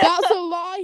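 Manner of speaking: laughing out the words. Real, not acted. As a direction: burst out laughing as you say it. Laughing retort.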